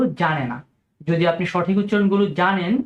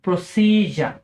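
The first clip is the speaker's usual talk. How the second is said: প্রসিজার repeated as PRO-si-jer; British pronunciation; much slower than usual. Shown as a demonstration. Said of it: "আমি আবারও বলছি".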